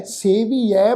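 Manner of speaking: ਸੇਵੀਐ in three parts, "se-vee-ai"; pronunciation demo. Shown as a demonstration. Teacher shows the reading, ਸੇਵੀਐ slowly as "se-vee-ai". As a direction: say ਸੇਵੀਐ slowly with long "ee" and open "ai". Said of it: "ਪਾਠ ਹੈ ਜੀ".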